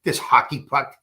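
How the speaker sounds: fast, needling insult-comic jab; quick mock insult to the electricians; Rickles insult. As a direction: rattle off the put-down like a roast comic. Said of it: "and he said".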